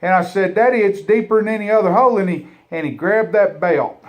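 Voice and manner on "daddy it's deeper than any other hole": put-on protesting kid. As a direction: blurt the protest out in a rush. Boy protests to his dad.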